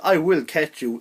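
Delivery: a hint of a flat robot voice; lightly voiced monotone robot. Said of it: "in this, like, monotone way".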